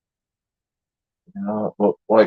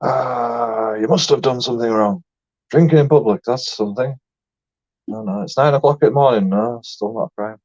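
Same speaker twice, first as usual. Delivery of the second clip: mock frantic shouting. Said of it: "we're shouting".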